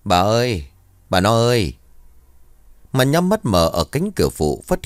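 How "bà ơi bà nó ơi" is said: lightly voiced wheezy old husband; wheezy call. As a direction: call out for your wife, a touch wheezy. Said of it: "Giọng khè khè ông bảo". (gọi vợ, giọng hơi khè khè)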